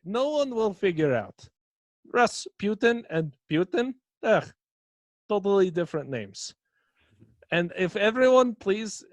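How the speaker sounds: loud mock Russian cult leader. Rasputin addresses the cult.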